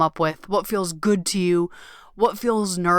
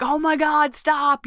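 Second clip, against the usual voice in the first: much higher, thrilled squeal; gushing delight; 7 semitones higher, slower than usual. Retold or imitated. Host reacting to listeners' stories, high and gushing. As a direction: play it like you can't believe how good it is. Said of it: "I'm like".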